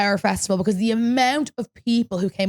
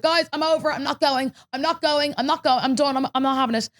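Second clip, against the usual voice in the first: higher, whiny diva refusal; diva meltdown; 4 semitones higher than usual. Retold or imitated. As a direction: dig in like a sulking diva. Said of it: "people thought I was such a diva".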